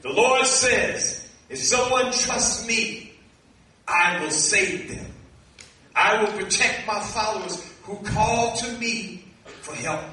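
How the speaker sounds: slow proclamation with drawn-out phrases and pauses; solemn scripture reading. Acted. Preacher reading what the Lord says to his followers, slow solemn proclamation. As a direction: proclaim each promise slowly, stretching key words.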